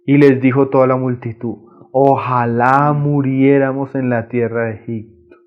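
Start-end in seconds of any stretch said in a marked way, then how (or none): 1.9-5.4 fearful lament. Retold or imitated. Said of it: "Mira cómo puede hablar una persona llena de temor".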